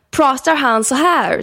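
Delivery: slow, exaggerated broken-Swedish accent; mock foreign accent. People asking whether her dad talks like this, mock foreign accent. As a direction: drag it out like a foreigner mangling Swedish. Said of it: "folk frågar typ så här".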